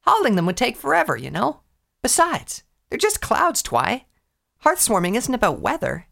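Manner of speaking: put-on eager, boastful young pony; Rainbow Dash voice.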